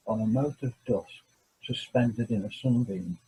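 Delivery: measured, weighty reading of a famous passage, pausing between phrases; solemn reading. Acted. Reads Sagan quote aloud.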